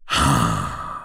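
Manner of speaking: short breathy sigh; weary sigh. Acted. Sighing at the brother's endless questions, wearily. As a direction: let out a sigh. Character scoffs before conceding questions.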